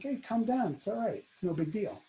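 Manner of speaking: gentle, hushed reassurance; calming. Retold or imitated. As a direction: softly soothe a nervous person. Same diner calming the worried waiter.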